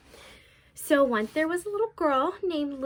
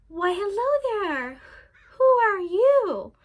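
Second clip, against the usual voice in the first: put-on old grandmother voice; 7 semitones higher, 6 dB louder than usual. Grandmother answers the door.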